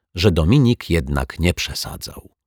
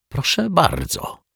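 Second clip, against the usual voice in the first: slow, high, unruffled reply; composed and unhurried; calmly; 11 semitones higher, slower than usual. A narrator's reading. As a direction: answer the accusation with calm confidence. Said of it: "powiedział spokojnie detektyw Pozytywka".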